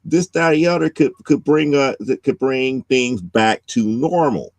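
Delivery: character voice. Retold or imitated. Beatrice quoted, raised pitch.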